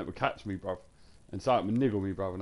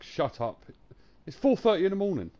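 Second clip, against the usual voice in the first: imitating wife's yell; 8 semitones higher, 7 dB louder than usual. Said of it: "She's like".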